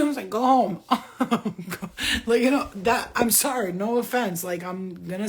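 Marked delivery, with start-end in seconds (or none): 0.3-0.8 laughing command. Retold or imitated. Telling spirit babies to leave.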